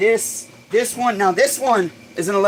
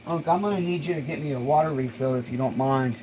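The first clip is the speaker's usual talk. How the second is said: breathless, winded between words; out of breath; 3 semitones lower, 6 dB quieter than usual. Real, not acted. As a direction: talk while catching your breath. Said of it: "Let me catch my breath".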